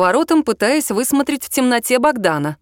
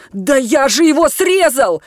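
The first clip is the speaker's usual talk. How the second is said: louder, slow indignant retort; 5 semitones higher, 4 dB louder, slower than usual. A narrator's reading. The organizer insists he cut the lock, indignant reply. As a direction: Max defends himself, saying he cut the lock, indignant and louder. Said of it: "возмущённо отозвался Макс".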